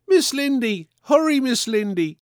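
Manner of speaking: put-on high, frightened child calling out; frantic call. A narrator's reading. Little girl on deck calling frantically for her nurse. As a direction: cry out for her nurse in fear. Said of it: "called frantically, fear ringing in her voice".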